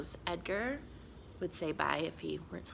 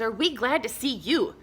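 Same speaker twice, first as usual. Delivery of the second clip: put-on happy kids; 5 semitones higher, 7 dB louder than usual. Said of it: "cried the kids".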